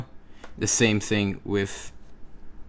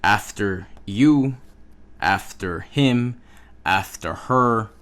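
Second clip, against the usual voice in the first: after you, after him, after her louder, pronoun stressed; louder model for repeating; 5 dB louder than usual. Shown as a demonstration. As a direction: stress the pronoun each time. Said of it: "So repeat after me".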